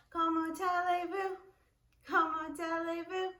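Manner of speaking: Comment allez-vous with silent final s; French phrase. Shown as a demonstration. Teacher modeling French greeting for class. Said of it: "Let's do French".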